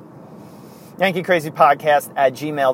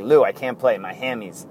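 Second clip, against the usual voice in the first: Rickey Henderson; 2 semitones lower than usual. Retold or imitated. Player begging off to Lou, lightly southern. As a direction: toss off a mild southern accent. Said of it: "That's why I do the southern impersonation".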